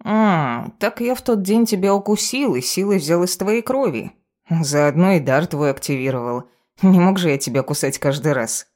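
casual cat explaining itself, rising lilt; a touch of feline self-justification; lightly voiced cat familiar. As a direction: explain airily, lightly in character.

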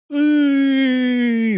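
high drawn-out howl of fear; frightened howl. Acted. Стефан воет от страха, когда Сыч трясёт его. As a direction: wail high in terror. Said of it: "завыл Стефан".

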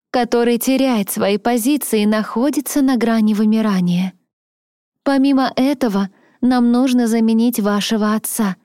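властная аристократка, чуть выше голосом; убеждает, слегка свысока; знатная дама. Acted. Леди Мария уговаривает героиню. (голос знатной дамы)

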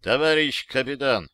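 crisp address to a superior; military report. A narrator's reading. Soldier beginning report to captain, formal military address. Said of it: "начал доклад".

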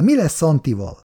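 put-on complaining old wife, mildly put upon; lightly voiced elderly wife grumbling at night. A narrator's reading. Szabó néni's voice.

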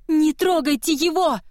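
high, loud shriek. Acted. Girl shrieking at soldiers coming to bury her brother, high shriek. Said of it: "завизжала она".

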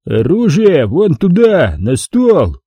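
slow booming order from the giant; the doorman orders guns on the table; rumbling monster. Acted. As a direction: rumble it like distant thunder. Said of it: "зарокотало".

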